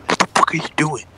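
threatening stage whisper at full force; harsh whisper. Acted. Storyteller as police confronting his friend over weed, forceful whisper. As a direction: whisper it forcefully so only he can hear. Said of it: "whispered to him".

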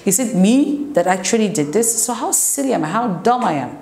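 acted disbelief, pitch swinging upward; mock self-reproach, mildly incredulous; shocked at oneself. Shown as a demonstration. Teacher voices someone shocked by their own silly mistake, mild disbelief. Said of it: "you're shocked by yourself".

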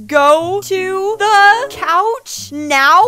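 hammed-up babysitter ordering her to the couch; mock yell. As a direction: drag it out like a command. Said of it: "yelled at me".

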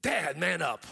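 lightly voiced daughter scolding dad; mock exasperated order to dad; a hint of a daughter telling dad off; daughter's rebuke. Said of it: "my daughter goes".

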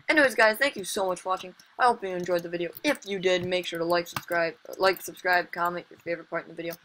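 fast, bright sign-off read; youtuber outro. Acted. Gamer thanks viewers and asks for likes, fast outro. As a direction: rattle off the outro at speed.

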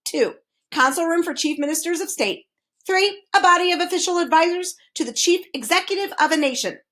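numbered entries recited by rote; reciting. A narrator's reading. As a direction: reel off definitions formally. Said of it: "recited the Duke".

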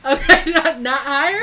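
high, loud question through giggles; can't get the words out for laughing; giggling. Real, not acted. Asking while still giggling.

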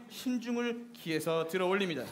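softly, cautiously; hushed. Acted. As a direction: hush it like handling danger. Instructing careful grenade lift.

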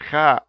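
"ha" with a breathy pharyngeal h, slowly; Arabic ha sound. Shown as a demonstration. Teacher pronouncing the first Arabic letter slowly for learners. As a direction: push "ha" from the throat, slow and airy. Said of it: "so we have".

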